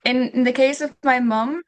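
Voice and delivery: words around a bite of food; mouth full. Real, not acted. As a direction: talk while still chewing. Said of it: "you can see me eating".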